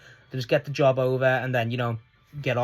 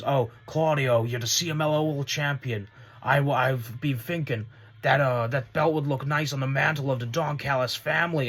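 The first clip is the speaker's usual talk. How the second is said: imitating Don Callis. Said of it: "And then Don Callis goes".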